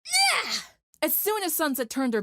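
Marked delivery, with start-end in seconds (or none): 0.0-0.5 high, loud war cry; battle shout. Acted. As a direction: yell it as you charge. Rainbow charges with a cry.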